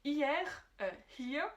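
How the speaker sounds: hier with an audible h, hee-ah; German hier; German pronunciation. Shown as a demonstration. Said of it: "prononcé à l'allemande".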